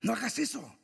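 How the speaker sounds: a hint of a sly inner voice talking you out of it; Satan's voice in your head. Preacher voicing Satan's doubts to the congregation, lightly mocking. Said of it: "Y escuchas en tu cabeza".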